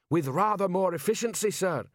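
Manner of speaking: troll sergeant, pitched high; Detritus. A narrator's reading. Troll answering Vimes in the cold, high-pitched troll voice.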